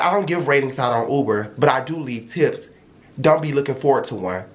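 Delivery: calm low-voiced cutting reply. To the Uber driver, a calm low cutting comeback. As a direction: sock it to him without raising your voice. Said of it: "I'm just socking it to him like that".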